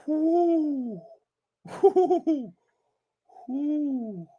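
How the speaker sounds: long high "whoo", sliding down; high whoops. Real, not acted. Streamer catching himself after laughing, high falling whoops.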